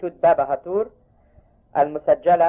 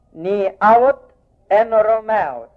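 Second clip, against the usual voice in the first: ordinary talk, nothing marked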